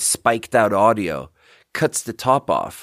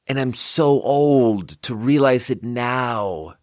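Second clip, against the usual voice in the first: mock wail; slower than usual. Mock despair at being old.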